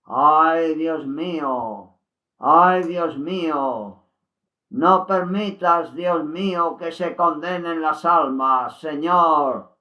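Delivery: slow, grieving lament; mild sorrowful pleading; with sadness. Retold or imitated. Luz Amparo laments sadly to God for the souls. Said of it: "con tristeza".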